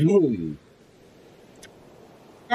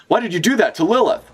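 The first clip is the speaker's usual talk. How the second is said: shocked question; 11 semitones higher than usual. Acted. Reading a shocked character's line.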